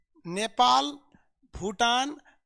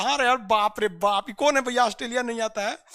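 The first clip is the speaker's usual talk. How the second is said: amused laughing; 3 dB louder than usual. Real, not acted. Amused by a student's comment.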